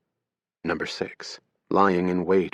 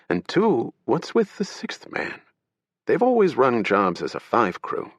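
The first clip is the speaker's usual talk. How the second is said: agent Ibarra; 3 semitones higher than usual. Acted. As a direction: needle him like a wry federal agent. Agent Ibarra voiced in story.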